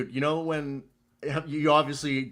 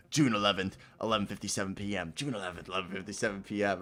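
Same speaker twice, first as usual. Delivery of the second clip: flat, quick recited time stamps, a bit softer; music saying the time; 3 semitones lower, 6 dB quieter, faster than usual. Retold or imitated. Retelling an acid trip, mock robotic time readout. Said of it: "the music was just saying the time".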